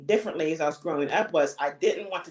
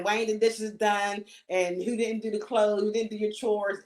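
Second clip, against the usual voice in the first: mildly raised, higher-pitched scolding; half-hearted mock yell, pitched up; mock parental yelling; 4 semitones higher than usual. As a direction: imitate a parent nagging about chores, without really yelling. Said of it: "when you're coming home yelling, screaming".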